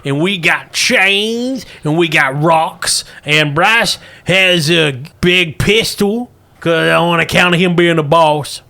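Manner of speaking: put-on slow, listing old miner; old prospector. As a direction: count the tools off slowly. Russell lists weapons.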